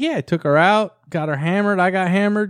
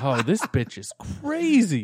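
incredulous; slower than usual. Retold or imitated. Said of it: "I was like".

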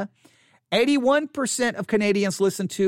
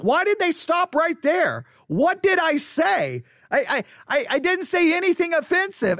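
higher, slowed fretting self-talk; mock paranoid panic; 9 semitones higher than usual. Replaying a listener dropping off: mock-anxious whine. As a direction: act out your own worried overthinking. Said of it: "And I'm like".

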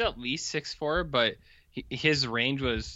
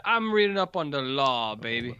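lightly voiced Dusty Rhodes. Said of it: "now we got Dusty Rhodes here".

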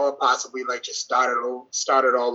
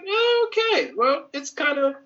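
high mock reaction; 12 semitones higher than usual.

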